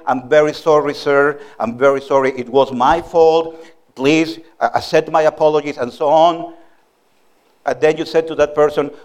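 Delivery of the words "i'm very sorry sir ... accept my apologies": low, measured, courteous apology; very polite apology. Retold or imitated. Driver apologizing after crashing into your car, very politely. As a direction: apologize politely in a lowered, even voice. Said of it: "said very politely".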